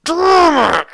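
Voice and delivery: high, drawn-out curse through gritted teeth; stretched, pained groan of words; strained agony. Retold or imitated. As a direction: act out cursing through a cramp, straining not to scream. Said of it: "I am gritting my teeth".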